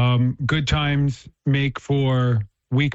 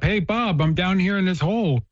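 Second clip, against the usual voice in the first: mock scream upward; 4 semitones higher than usual. Man stuck in a hole calls up to his friend, mock shouting. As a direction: imitate calling up to someone without really yelling. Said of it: "he's screaming up".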